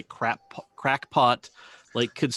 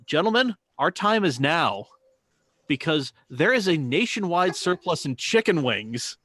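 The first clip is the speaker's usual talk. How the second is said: a touch of a mock herald, raised; mock grandiose announcement; 3 semitones higher, 3 dB louder than usual. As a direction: proclaim it like a solemn call to arms. Mock-grand announcement about wings.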